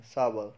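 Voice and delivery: 'सावर' ending in an uh sound for the R; R as schwa. Shown as a demonstration. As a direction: say 'सावर', letting the R melt into uh. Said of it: "आर को अ की sound में". ('सावर' में र की जगह अ)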